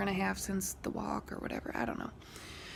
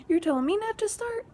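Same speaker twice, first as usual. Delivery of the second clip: incredulous laugh; 12 semitones higher, 6 dB louder than usual. Retold or imitated. Incredulous at neighbor's retort.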